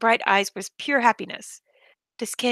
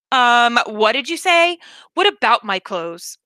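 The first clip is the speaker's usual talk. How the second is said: indignant, louder comeback; offended retort; 5 dB louder than usual. Acted. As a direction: bristle at the insult. Insulted about his clothes.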